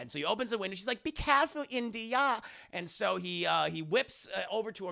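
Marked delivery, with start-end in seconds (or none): 1.0-2.4 lightly voiced German accent, higher. Elsa warning Indy at the window, light German accent. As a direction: caution him in a hint of German accent. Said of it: "You have a very German accent".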